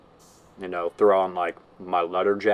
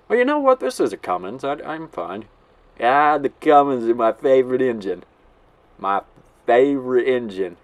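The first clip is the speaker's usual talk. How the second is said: impersonating Dylan; 3 semitones higher, 3 dB louder than usual. Retold or imitated. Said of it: "we're gonna pull a Dylan".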